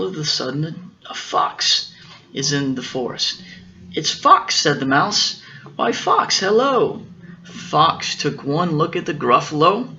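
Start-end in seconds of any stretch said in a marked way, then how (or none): 3.9-4.6 high squeaky mouse call. Acted. Mouse announcing the fox in a high mouse voice. 5.8-7.1 very high little mouse greeting. Acted. Mouse greeting the fox in a very high voice.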